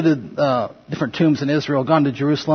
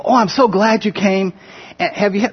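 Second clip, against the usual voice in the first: happy greeting; 3 semitones higher than usual. Retold or imitated. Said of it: "they're so happy to see you".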